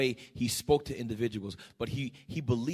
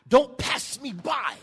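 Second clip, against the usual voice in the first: a slow, shouted plea, pitched higher; imitated desperate cry; 9 semitones higher, 4 dB louder, slower than usual. Preacher voicing the blind man begging Jesus, shouting. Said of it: "had to scream at the top of his lungs".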